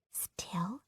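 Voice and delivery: put-on tiny hushed girl's whisper. A narrator's reading. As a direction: barely breathe it. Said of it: "she whispered".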